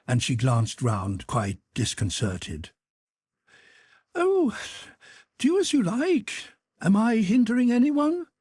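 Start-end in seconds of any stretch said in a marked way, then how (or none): 4.2-8.3 higher, slightly louder huffy retort; offended mother. Acted. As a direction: give in with wounded pride. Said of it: "she said, not surrendering".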